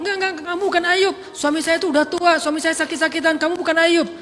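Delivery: high, loud, fast denial; indignant denial. Acted. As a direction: refuse to believe him. Wife denying he is Ayub. (istri yang menyangkal dengan suara tinggi)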